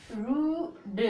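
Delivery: "रूड" with long oo, d released apart; sounded out. Shown as a demonstration. Teacher gives a similar example, sounded out "रूड". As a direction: stretch "रू", then add d. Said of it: "ऐसे".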